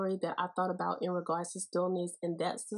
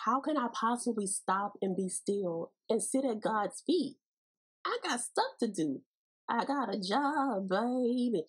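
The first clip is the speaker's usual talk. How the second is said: sassy busy woman; 3 semitones higher than usual. Retold or imitated. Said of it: "we say".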